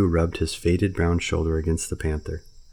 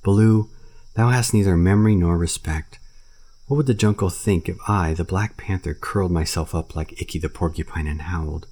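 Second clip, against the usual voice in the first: impatient. Acted. Bagheera rebuking Baloo for moaning, impatient. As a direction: snap at the bear to pull himself together. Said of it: "said Bagheera impatiently".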